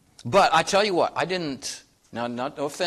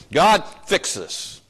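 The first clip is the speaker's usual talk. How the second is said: demanding plea; 5 semitones higher, 5 dB louder, much slower than usual. Retold or imitated. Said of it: "rub on the bottle and say".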